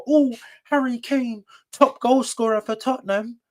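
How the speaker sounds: mocking quote. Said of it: "You think anybody's gonna remember".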